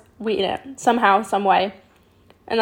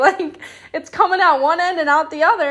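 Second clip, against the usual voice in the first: laughing; 6 semitones higher than usual. Real, not acted. Laughing at memory.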